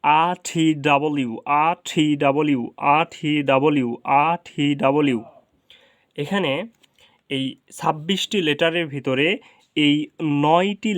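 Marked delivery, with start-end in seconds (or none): 0.0-5.2 slow আ টি ডাব্লিউ, aspirated t; pronunciation drill. Shown as a demonstration. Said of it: "এভাবে practice করতে হবে".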